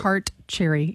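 "Tart cherry" pronounced deliberately, word by word; careful pronunciation. Shown as a demonstration. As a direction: model "Tart cherry" with care. Co-host demonstrates careful pronunciation.

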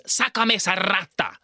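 retold scream. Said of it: "smacks Maria Jose and screams".

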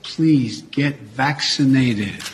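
normal talking voice

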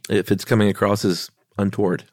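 head cold, a little stuffy; stuffy nose. Real, not acted. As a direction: talk through a stuffy nose. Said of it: "I'm a little stuffy".

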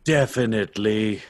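slow hero's confirmation; put-on hero voice. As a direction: draw it out as the hero. Brash keeps up the Renegade act.

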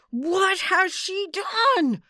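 high, slow, loud trilling demand; shrill like a frog in the marsh; piercing trill. A narrator's reading. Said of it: "he demanded in a trill that pierced the marsh".

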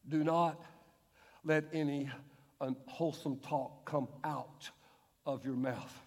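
soft, low, slow rereading; quiet pondering. Shown as a demonstration. Preacher rereading verse to congregation, hushed and low. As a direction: drop to a hushed low murmur. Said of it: "Do you think Paul meant that".

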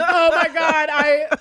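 real tearful laughter breaking up the words; halting, helpless from laughing so hard; crying with laughter. Real, not acted. Host losing it over the name Chev Chelios, crying with laughter. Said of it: "I am literally crying".

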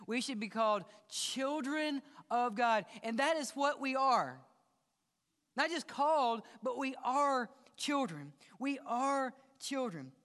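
building preacher's cry. Real, not acted. Preacher rising to climax.

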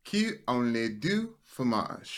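measured attempt at a French accent. Shown as a demonstration. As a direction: show off your French, spaced out word by word. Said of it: "his French accent good, but that he speaks French".

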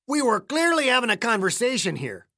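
put-on high-pitched, indignant old hick with an accent; testy accented old-timer; irritated old man. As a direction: rebuke the interrupter, pitched well up. Voices irritated caretaker Clayton.

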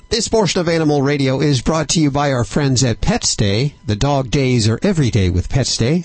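radio host's polished promo delivery; sponsor ad read. Acted. Host thanks pet hotel sponsor on air, ad-read delivery. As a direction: read the sponsor copy to listeners.

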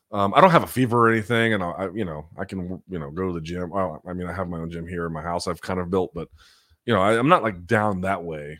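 sore throat, talking anyway; hoarse from a swollen throat. Real, not acted. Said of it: "my throat is swollen".

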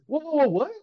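high, loud startled whoa; playing the son caught off guard; son's startled double take; retold surprise. Son surprised about podcast.

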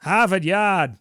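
a loud, hammed-up Boston accent; mock Boston accent. Podcast host teasing his co-host with a loud mock Boston accent. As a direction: punch it out in a jokey Boston accent.

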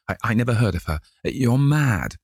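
high, scared stutter; frightened stammer. Acted. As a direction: stumble over the words in fear. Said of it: "he stammered".

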